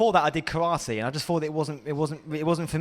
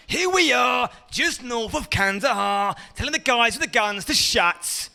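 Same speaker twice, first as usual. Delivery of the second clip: Ross Kemp impression; 5 semitones higher than usual. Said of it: "Ross Kemp on Gangs".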